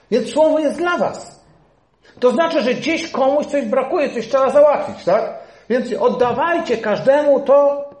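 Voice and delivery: loud, high preacher's proclamation; forceful preaching. Acted. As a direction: drive the command home to the church. (głośne, żarliwe kazanie)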